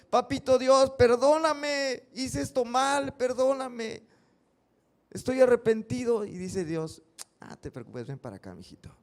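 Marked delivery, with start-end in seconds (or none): 0.1-6.2 plegaria fuerte y aguda, alargando perdóname; súplica a Dios. Acted. Oración de un niño a Dios. 7.4-8.9 muy suave y más grave, acogedor; Dios tierno. Acted. Dios responde con ternura.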